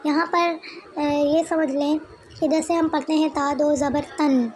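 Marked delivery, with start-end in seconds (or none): 3.5-4.5 तन ending in a clear nun sound; tanween nun ending. Shown as a demonstration. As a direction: let the final न of तन ring out. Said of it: "आखिर में नून का sound आ रहा है".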